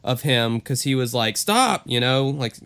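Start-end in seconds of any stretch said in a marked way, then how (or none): 1.4-1.8 retold protest. Retold man fending off attack.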